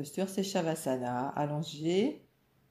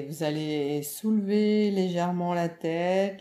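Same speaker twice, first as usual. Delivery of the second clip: louder, firmer coaching through a full-body squeeze; urging effort; 3 semitones higher, 6 dB louder than usual. Real, not acted. Yoga teacher has listeners clench every muscle, urging effort. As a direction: push them to tense up, voice raised.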